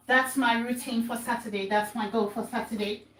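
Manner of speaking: panting between words while exercising; winded from the stepper workout; out of breath. Real, not acted. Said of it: "I'm really out of breath today".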